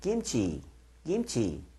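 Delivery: 김치 said the American way, first syllable 김 stressed. Showing how Americans pronounce 김치: American-accented 김치, stress on 김. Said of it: "미국 분들은요. 김치를 발음할 때 어떻게 발음하는지 아십니까? 이 정도로 합니다".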